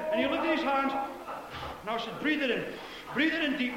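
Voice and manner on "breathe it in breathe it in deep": softer, retold prayer instruction; hushed-down preacher guidance; gentle coaxing. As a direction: ease the listener into breathing it in. Coaxing boy to receive prayer.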